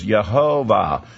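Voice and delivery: Yehovah with Y and an open final ah; reconstructed pronunciation. Shown as a demonstration. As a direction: say Yehovah as Yah-HO-vah. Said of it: "is the pronunciation they tried to do".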